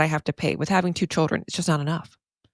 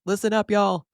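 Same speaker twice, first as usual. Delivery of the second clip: higher-pitched call to the back rows; 5 semitones higher, faster than usual. Real, not acted. Podcaster insisting to the people in the back, calling out. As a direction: raise your voice to rally the listeners. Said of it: "say it louder for the people in the back".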